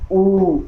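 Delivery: ऊ as a long, close back vowel with rounded lips; vowel demo. Shown as a demonstration. Teacher showing students the ऊ vowel, rounded and held. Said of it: "इसमें हमारा mouth close है और टंग के back part".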